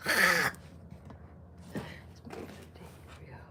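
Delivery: whispered repeat. Real, not acted. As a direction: say it again under your breath.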